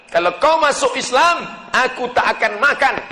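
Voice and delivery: high, loud ultimatum; mother's threat. Acted. Mother threatens her son for converting to Islam, loud threatening voice. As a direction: deliver it forcefully, as a warning. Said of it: "mengancam sahabat Nabi".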